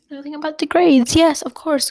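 gulping breath between words; catching breath midword after tears. Real, not acted. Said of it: "I'm crying a little bit".

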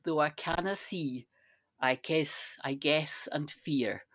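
slow, measured reciting of Scots verse; poem recitation. Acted. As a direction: recite it slowly, feeling each line of the poem. Recites Burns' To a Mouse.

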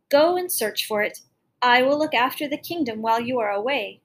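loud insistence. Acted. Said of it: "she cried".

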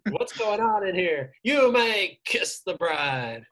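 acted-out cartoon officiant; Mermaid Man. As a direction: draw out the cartoon wedding blessing. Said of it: "Mermaid Man pronounces he and SpongeBob".

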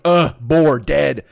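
loud, grunted caveman words; loud primitive grunts, one word at a time; grunting caveman. Acted. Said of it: "These cavemen are just like".

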